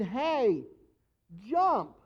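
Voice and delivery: a voice from nowhere calling out a loud command; mysterious voice calling. Retold or imitated. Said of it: "you hear this voice saying".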